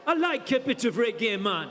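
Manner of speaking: put-on light West Indian accent, laid-back; a hint of a Caribbean lilt. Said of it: "That's my West Indian accent".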